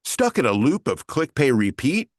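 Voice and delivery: light, bright promo announcer delivery; record it as a slightly comical TV promo; TV promo read. Shown as a demonstration. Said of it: "If I was to record that now".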